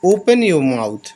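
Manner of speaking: each English word spaced out slowly; slow dictation. Shown as a demonstration. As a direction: read it slowly for the learners. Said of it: "माउथ मतलब मुँह है".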